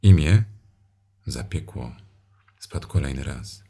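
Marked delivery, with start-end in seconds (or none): 0.0-0.4 rising loud demand; loud demanding question. Acted. Domina znów żąda imienia, głośno. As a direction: insist on the name, louder.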